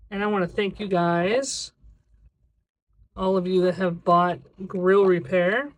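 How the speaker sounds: phrase ends lilting up like a question; stuck in a rising sing-song tune; sing-song recording cadence. Real, not acted. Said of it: "I don't know why my voice is doing that".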